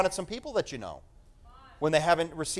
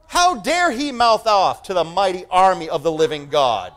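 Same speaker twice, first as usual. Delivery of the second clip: defiant shout; 3 semitones higher, 6 dB louder than usual. Acted. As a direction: roar it like a young hero calling out a giant. David defying Goliath, acted quote.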